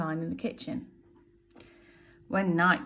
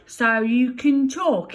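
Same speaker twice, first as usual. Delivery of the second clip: surprised; 5 semitones higher, 9 dB louder, slower than usual. Acted. Bill surprised baby speaks.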